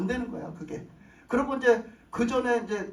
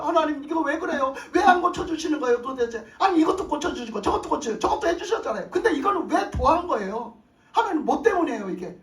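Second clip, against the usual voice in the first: anguished plea to God; 5 semitones higher, 3 dB louder than usual. Retold or imitated. Prayer complaining to God.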